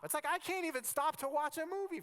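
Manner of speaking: high-pitched self-mocking complaint; mock exasperation. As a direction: exclaim it in comic disbelief at yourself. Mock exasperation at his own impatience.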